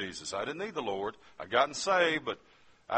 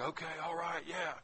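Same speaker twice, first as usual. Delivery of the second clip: much higher, softer imitated relief; relieved teammates; 9 dB quieter than usual. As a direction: play the guys easing up as they spot a runway. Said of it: "all the guys on this side of the plane is like".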